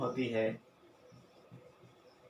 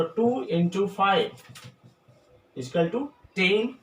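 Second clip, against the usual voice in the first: slow dictation; 2 semitones higher, much slower than usual. Shown as a demonstration. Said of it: "penta means five होता है".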